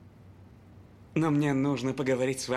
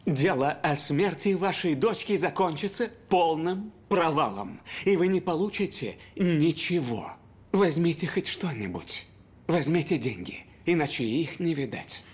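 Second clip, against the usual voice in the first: urgent; 4 semitones higher than usual. Acted. Exec presses urgently for settlement.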